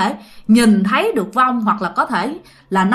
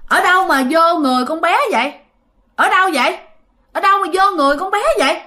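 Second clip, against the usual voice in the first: tra hỏi vong; 6 semitones higher, faster than usual. Retold or imitated. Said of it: "cổ hỏi rằng á là".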